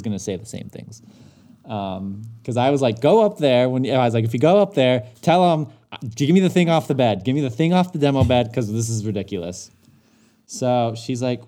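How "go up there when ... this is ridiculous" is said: louder, pushy retold instructions; rally her to go demand the part; fired-up demand. Telling his wife what to say at the store, louder and fired up.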